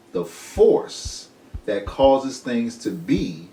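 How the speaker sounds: slow, deliberate reading voice; weighty definition read; solemn reading. Acted. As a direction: read it like scripture, slowly. Reads definition slowly.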